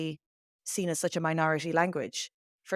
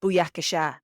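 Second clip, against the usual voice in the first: Ali G catchphrase; 4 dB louder than usual. Retold or imitated. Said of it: "you remember Ali G saying".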